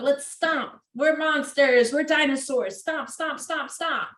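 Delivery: high, playful dinosaur game voice; playful monster stomping. Shown as a demonstration. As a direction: stomp like a pretend monster with the kid.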